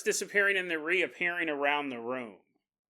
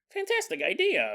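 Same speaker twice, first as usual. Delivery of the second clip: sarcastic praise; 11 semitones higher than usual. Retold or imitated. Sarcastic reply to Amanda.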